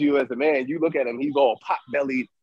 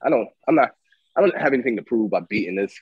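dismissive self-talk; 5 semitones lower than usual. Retold or imitated. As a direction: talk yourself down, word by word. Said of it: "to say".

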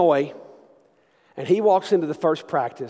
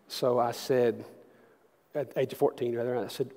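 ordinary talk

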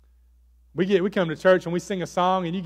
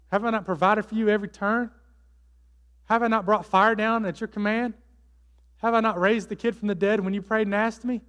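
raised-pitch, pleading voice of God; insistent questioning; 4 semitones higher than usual. Acted. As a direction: press each rhetorical question home, pitched up. God questioning the runaway Elijah.

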